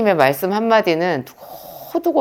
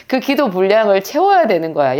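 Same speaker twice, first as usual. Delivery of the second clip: ordinary talk, nothing marked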